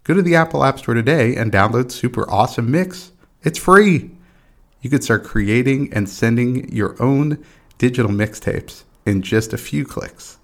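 upbeat promo voice; ad read. Acted. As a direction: sell the app brightly. Sponsor ad read before show.

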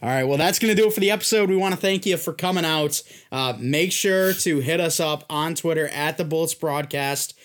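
amped sign-off. Real, not acted.

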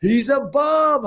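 high, slow mock Bobby voice; mimicking Bobby. Imitating Bobby dismissing a fighter, high and slow.

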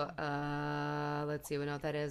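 low creaky vocal fry. Shown as a demonstration. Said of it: "that's a vocal fry".

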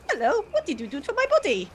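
a lightly voiced Infinity, barely off his own voice; Infinity impression. Player imitating Infinity waking up, a light mock impression. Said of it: "That is how she sounds".

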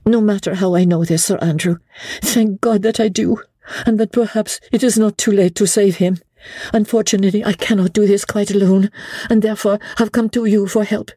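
a wife pressing for help; Lady Blakeney's voice. A narrator's reading.

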